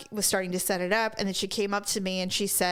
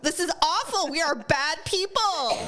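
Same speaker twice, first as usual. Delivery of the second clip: higher, laughing through mock horror; guilty laughing; 8 semitones higher than usual. Friend scolds them both for laughing, giggling. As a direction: giggle while scolding yourselves. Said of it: "And I said".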